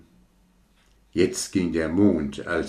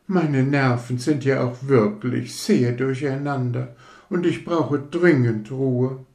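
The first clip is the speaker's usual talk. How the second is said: much higher, disdainful rocket voice; sniffy rocket; 6 semitones higher than usual. Acted. Rocket lands in the mud, disdainful. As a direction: complain with wounded pride.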